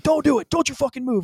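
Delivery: high, loud retold threat; shouted warning. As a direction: yell the order down at him. Retold threat while pinning attacker.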